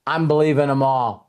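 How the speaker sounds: giddy laughing promise. Retold or imitated. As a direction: chuckle as you quote yourself. Retelling his own eager vow.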